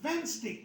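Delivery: वेडनेसडे said wenz-day, the d dropped; silent d demo. Shown as a demonstration. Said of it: "डी तो silent हो गया". (वेडनेसडे में डी silent, वेन्ज़डे बोलें)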